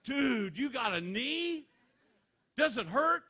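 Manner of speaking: high, loud excited bro voice; mock envious buddy. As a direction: gush like an envious friend. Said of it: "He goes".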